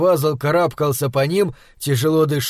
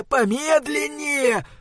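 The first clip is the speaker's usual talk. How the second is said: high, drawn-out "помедленнее", falling at the end; anxious urging; 10 semitones higher, 3 dB quieter, slower than usual. A narrator's reading. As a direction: stretch "помедленнее" out in a strained high voice. Anxious repeat of hushed warning. (тревожное протяжное «помедленнее» высоким голосом)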